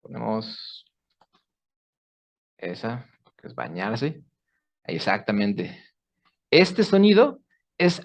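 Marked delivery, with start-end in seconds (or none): none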